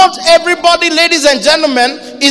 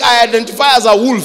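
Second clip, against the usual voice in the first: mock quote; 4 semitones lower, faster than usual. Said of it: "Another one was saying".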